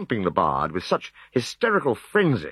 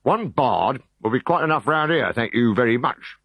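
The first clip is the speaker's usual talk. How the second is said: quelling; 5 semitones higher than usual. Acted. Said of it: "quelling him with a glance".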